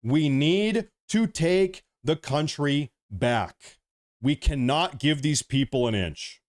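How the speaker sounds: heated, emphatic political rant. Real, not acted. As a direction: make an impassioned plea to take action. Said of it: "I'm getting a little bit heated".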